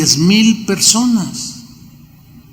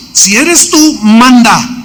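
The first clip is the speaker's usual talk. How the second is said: high, unsure plea; doubtful plea; 4 semitones higher, 4 dB louder, slower than usual. Acted. Peter asking Jesus to call him, doubtful plea. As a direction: test him with the question.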